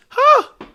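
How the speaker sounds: sudden high, loud gasp; exaggerated gasp. Reacting to writers removing the child, exaggerated gasp. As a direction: blurt a high, loud breath.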